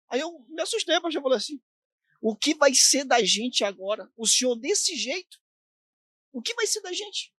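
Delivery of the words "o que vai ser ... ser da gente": rising into a high, broken cry of despair; retelling the fallen pastor's anguished question; desperate plea. Retold or imitated. A young man retelling his old pastor's despair, pleading. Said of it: "tão, tão desesperado".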